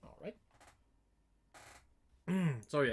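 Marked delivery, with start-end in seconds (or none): 0.0-0.4 breath held, barely voiced; holding breath. Real, not acted. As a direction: speak while holding your breath. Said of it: "I was holding my breath in".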